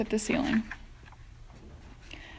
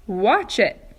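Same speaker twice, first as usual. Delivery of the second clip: sharp cry; 5 dB louder than usual. Acted. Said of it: "cried Miss Spider".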